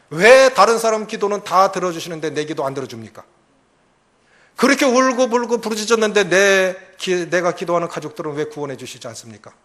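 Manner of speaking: loud, indignant prayer; angry complaint to God. Acted. Jonah-like believer shouts at God in prayer, angry. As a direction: shout your grievance at God. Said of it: "이렇게 화내는 거예요".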